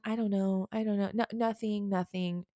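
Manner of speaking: imitating someone dodging the question; mock evasive denial. Someone telling their partner nothing's wrong, in a light mock evasive voice. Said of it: "when you keep telling someone".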